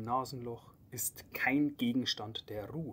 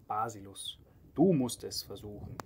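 louder, pressing on du; insistent push; 3 dB louder than usual. Acted. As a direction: push him to go first.

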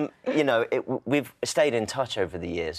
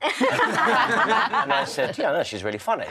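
bursting into high laughter mid-sentence; laughing; 13 semitones higher, 4 dB louder, slower than usual. Real, not acted. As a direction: laugh through the words, much higher. Laughing while retelling the story.

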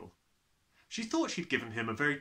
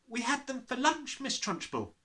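put-on boy's voice; 12 semitones higher than usual. Nigel replies.

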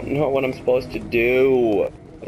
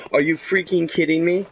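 exasperated; 6 semitones higher than usual. Real, not acted. Frustrated at game death.

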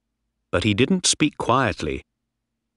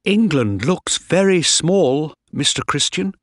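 put-on excited boy; 7 semitones higher than usual. A narrator's reading. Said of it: "happy and excited".

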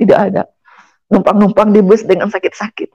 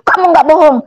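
doubting father; 8 semitones higher than usual. Retold or imitated.

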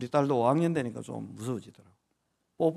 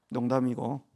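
ordinary delivery

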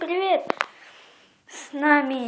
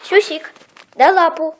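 talking to a dog; 8 dB louder than usual. Real, not acted. Commanding dog to give paw.

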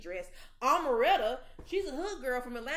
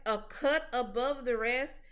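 incredulous; 4 dB louder than usual. Real, not acted. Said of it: "That, what?".

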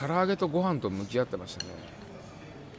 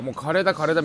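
はしゃいだ連呼; 3 semitones higher, 5 dB louder, faster than usual. Retold or imitated. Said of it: "みたいにニカタさんとずっと言ってて".

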